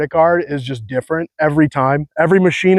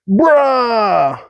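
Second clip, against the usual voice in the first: higher, drawn "Bruh" with a laughing crack; mock Cali "Bruh", voice cracking; California bro; 6 semitones higher than usual. Shown as a demonstration. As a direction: squeeze out "Bruh" like a stoked surfer. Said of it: "stupid way that I speak".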